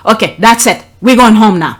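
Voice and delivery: firm parent tone. Shown as a demonstration. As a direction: put your foot down with the kid. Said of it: "but my tone of voice change".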